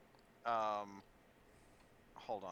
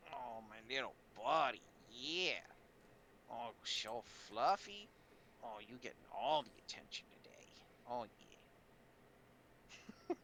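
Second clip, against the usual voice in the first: cooing to pet. Real, not acted. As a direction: coo over your little buddy. Fussing over the cat.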